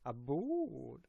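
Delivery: drawn-out Minnesota vowel in "about"; mock Minnesota accent on one word. Shown as a demonstration. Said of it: "The Minnesota accent".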